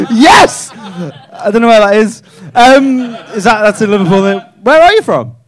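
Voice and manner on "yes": louder and higher, laughing victory shout; triumphant yes. Real, not acted. Comic celebrating nailing the hometown, loud laughing cheer. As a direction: punch the air with it.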